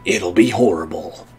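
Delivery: Solid Snake voice. Shown as a demonstration. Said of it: "my best Solid Snake voice".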